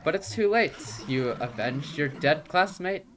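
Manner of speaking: high, loud taunting villain voice; mock the grieving hero from above; gloating villain. Villain taunting the girl over her enemy, high loud gloat.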